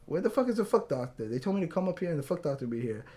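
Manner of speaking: put-on heavy New York accent. Woman demands the missing foot doctor, New York accent. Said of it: "she had a really heavy New York accent".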